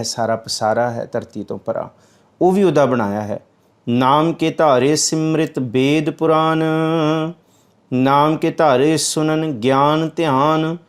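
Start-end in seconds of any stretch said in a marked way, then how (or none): 3.9-10.8 slow, measured recitation of the verse; scripture recitation. Acted. Preacher reciting the verse to the congregation, slow and measured. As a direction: intone each word slowly.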